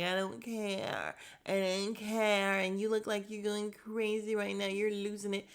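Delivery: mock-calm brush-off; imitating her calm. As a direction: play her coolly unbothered, dragging the words. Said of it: "calm about it".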